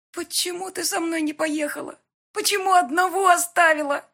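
put-on high, loud tearful child; little boy crying to his mother, high. A narrator's reading. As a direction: weep it out as a hurt child. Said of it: "плакал мой ребёнок".

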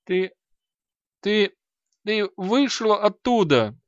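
high, trembling stammer of a terrified fat man; stammering in fear. A narrator's reading. Frightened merchant stammering at the mage who escaped. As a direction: babble it out, scared stiff. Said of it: "Он пролепетал".

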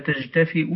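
تجتفئ with j in place of ha; تجتفئ said as tajtafi'u; jim and hamza. Shown as a demonstration. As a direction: sound a j and a glottal stop in تجتفئ. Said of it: "بالجيم والهمز".

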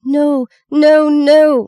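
high, loud cry of protest; screamed. A narrator's reading. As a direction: cry out in panic, pitched high. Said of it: "Maggie screamed".

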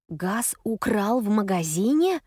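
slow, shocked repetition; a hint of horrified disbelief. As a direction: repeat it slowly in horror. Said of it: "в ужасе повторяю я".

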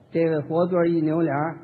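ordinary talk, nothing marked

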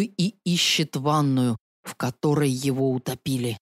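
low, hushed campfire tale; spooky ghost story. Acted. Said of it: "пугающим голосом начал своё повествование".

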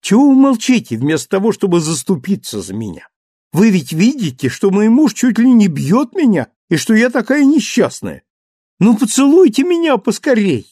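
high, loud mock-wounded young wife; playful complaint. A narrator's reading. Cosette begging her father to defend her, high and loud. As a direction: pretend to be hard done by.

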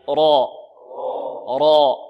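rolled full heavy "راء", held and loud. Shown as a demonstration. Teacher leading students to repeat the letter, heavy ra. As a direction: sound out "راء" with a thick, emphatic vowel. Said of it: "انطقوا معي".

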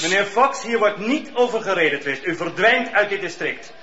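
stern loud warning. Acted. Judge orders Fox to leave the district, stern and loud. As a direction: threaten him with jail, leave no room to argue.

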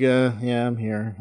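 blank, low-energy mumble of a reply. Retold or imitated. Bored hostess standing by her customers, blank. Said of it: "such a blank look on her face".

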